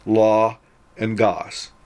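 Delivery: law and gos said slowly as two beats; syllable by syllable. Shown as a demonstration. Teacher slowly splitting logos into syllables. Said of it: "two-syllable word".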